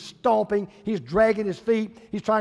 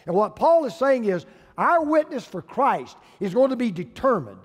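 raised, driving pulpit delivery; emphatic preaching; 3 semitones higher, 4 dB louder than usual. Acted. Preacher urging patience with difficult people, emphatic preaching. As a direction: hammer the key words with conviction. Preacher drives the point home.

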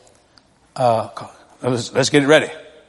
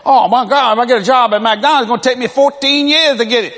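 put-on higher, louder, laughing kid complaint; mock whining kid; 5 semitones higher, 3 dB louder than usual. Kid complains to dad about working at McDonald's, whining. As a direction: whine it like a spoiled teen.

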